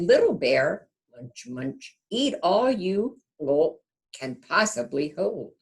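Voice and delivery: a hint of a cozy mother bear urging her cub to eat. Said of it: "And she said".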